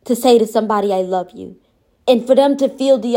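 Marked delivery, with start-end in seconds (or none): 0.9-1.6 lower, tender I love you; a hushed, sincere I love you; gentle. Shown as a demonstration. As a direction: say it softly like you mean it. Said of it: "Gentle enough".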